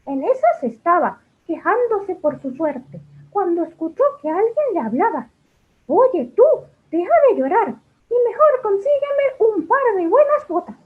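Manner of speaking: dwarf voice. Acted. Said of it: "Ahora como un enano".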